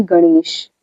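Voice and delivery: गणेश with ण as a flapped ड़ sound; retroflex ण. Shown as a demonstration. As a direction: draw out गणेश slowly, tongue curled on ण. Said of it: "इसका उच्चारण र जैसा होता है".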